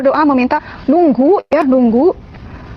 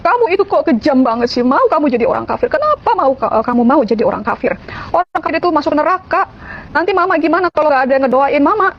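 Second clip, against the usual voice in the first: higher-pitched imitation of a distraught mother; retold tearful plea; 4 semitones higher than usual. Mother shocked at child leaving Islam, retold tearful pleading. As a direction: plead like a hurt mother, mildly acted, no real sobs. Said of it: "dia cuma bisa nangis, dia bilang".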